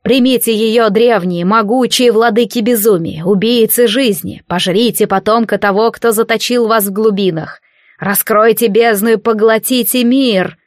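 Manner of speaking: exultant ritual chant; triumphant invocation. Acted. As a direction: call on the ancient lords in triumph. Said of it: "торжествующе закричал Невис".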